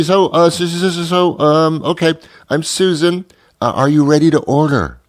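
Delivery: high-pitched nervous waitress. Retold or imitated. Waitress Susan asking the customer to order, high and nervous. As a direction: squeak it out like a flustered waitress.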